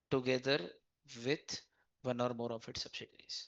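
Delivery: quiet, slow and spaced out; slow dictation. Shown as a demonstration. Teacher reads the act's wording to students, slow and soft. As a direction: dictate each word softly and slowly. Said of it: "reading the definition aloud".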